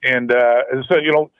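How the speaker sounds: phone line sound; over the phone. Real, not acted. Thanks for calling in.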